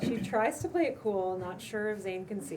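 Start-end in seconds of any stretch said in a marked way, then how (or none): 0.0-1.4 laughing through it. Real, not acted. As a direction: narrator breaks into real laughter mid-line. Narrator cracks up at scene.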